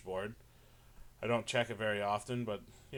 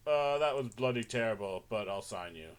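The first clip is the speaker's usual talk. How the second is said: Simon impression. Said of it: "I think he would say".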